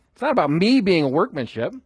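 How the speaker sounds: "me" lifted out of the phrase in contrast; stress on me. Shown as a demonstration. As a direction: punch the word "me". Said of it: "Try different words to emphasize".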